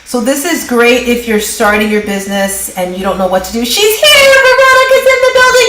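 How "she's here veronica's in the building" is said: high, fast and bright guest announcement; excited announcement. Real, not acted. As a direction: announce her like a star arriving.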